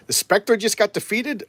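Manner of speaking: high, slow disbelief at the news; stunned question. Retold or imitated. Hero reacting to the Spectre's defeat, stunned. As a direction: ask it as if you can't believe it. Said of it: "and he's like".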